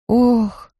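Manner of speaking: sighed "oh"; exhaled oh. A narrator's reading. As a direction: breathe out a dismayed oh. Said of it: "выдохнула Зоя".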